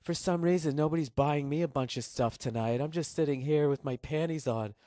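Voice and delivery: lightly voiced late-night hottie; a hint of a come-on from a phone-line girl; mock hotline hottie. Hottie pitching to lonely late-night viewers, lightly mocked come-on. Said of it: "these ridiculously hot women".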